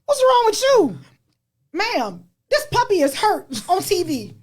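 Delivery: put-on high teasing kid voice; mocking her kids. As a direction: imitate the kids poking fun, high. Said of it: "they're like".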